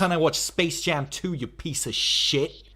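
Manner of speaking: loud angry demand. Pretend. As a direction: lay into the manager. Yelling at pretend manager.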